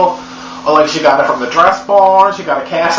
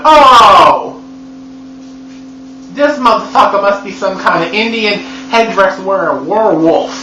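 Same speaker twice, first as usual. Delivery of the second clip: mock outraged shout; 6 semitones higher than usual. Reacting to Jacob in the movie, mock outraged shout. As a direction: shout it like a realization at the screen. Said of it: "And I'm like".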